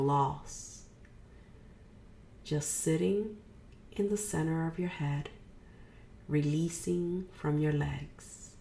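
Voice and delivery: unhurried meditation guide, pausing between phrases; guided meditation. Real, not acted. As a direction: guide a listener gently into releasing, leaving room to breathe.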